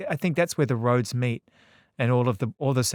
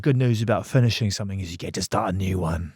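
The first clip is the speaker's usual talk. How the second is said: put-on British accent; 5 semitones lower than usual. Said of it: "I'll do it in a British accent".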